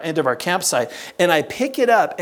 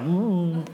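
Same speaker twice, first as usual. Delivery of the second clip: nauseous; 5 dB quieter than usual. Retold or imitated. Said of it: "I get nauseous".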